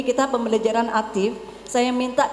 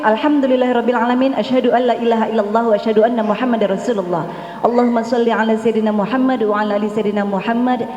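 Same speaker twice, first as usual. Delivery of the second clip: fast chanted Arabic prayer formula; opening prayer; 3 dB louder than usual. Acted. Speaker to parents, opening the seminar with a fast prayer. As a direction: rattle off the opening prayer quickly.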